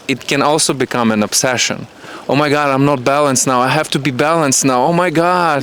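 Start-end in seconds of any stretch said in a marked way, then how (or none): 2.3-5.6 fast, higher, fretful inner voice; mock panic. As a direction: play the frantic self-talk of someone obsessed with balance. Mocking an anxious obsessive inner voice.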